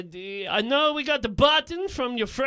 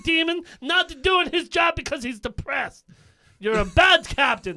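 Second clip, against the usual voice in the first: raised voice, scolding the captain; angry rant; 2 semitones higher than usual. Acted. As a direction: tell him off hard.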